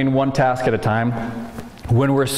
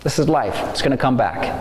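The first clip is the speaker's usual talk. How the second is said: calm accepting voice. Shown as a demonstration. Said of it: "That's that choir voice".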